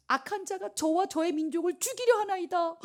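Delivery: high-pitched, formal dramatic plea; pleading queen. Acted. Esther reveals the plot to the king, acted plea. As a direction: act a desperate appeal to royalty.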